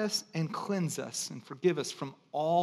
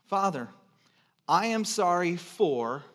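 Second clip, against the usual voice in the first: prayer phrase; slower than usual. Shown as a demonstration. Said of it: "The sentence".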